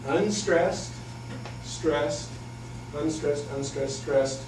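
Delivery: each beat said apart with a pause; stress pattern. Shown as a demonstration. Teacher spells out the limerick rhythm, measured beats. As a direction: tap out unstressed, stressed like a meter. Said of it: "It is an".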